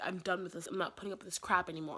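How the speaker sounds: brisk, dismissive, done-with-you; sassy and done. Shown as a demonstration. Actor demonstrating the director's sassy note, brisk and done. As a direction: toss it off like you've had this talk before. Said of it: "more, like, reserved".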